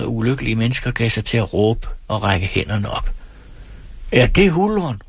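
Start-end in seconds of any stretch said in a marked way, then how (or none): 4.1-5.0 fearful cry. Acted. Frightened villagers cry out at the rider, high and anxious. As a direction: cry out, fearing a forest spirit. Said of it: "råbte de".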